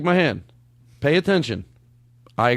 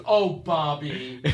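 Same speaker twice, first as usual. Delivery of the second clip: slow, stretched "oh, Bobby"; imitating Dave; 4 dB quieter, much slower than usual. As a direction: draw it out like someone overheard enjoying himself. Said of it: "Just like he's laughing".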